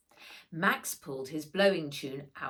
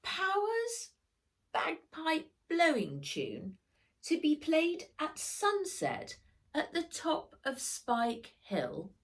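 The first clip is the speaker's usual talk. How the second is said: reading aloud; 11 semitones higher than usual. Acted. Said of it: "read Max".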